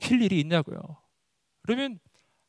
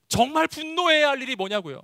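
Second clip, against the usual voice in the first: impassioned preaching; 9 semitones higher than usual. Real, not acted. Preacher repeats the challenge forcefully.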